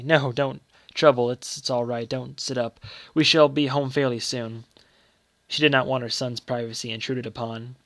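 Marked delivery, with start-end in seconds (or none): 0.0-4.6 reluctant. Acted. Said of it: "said Paul's mother reluctantly".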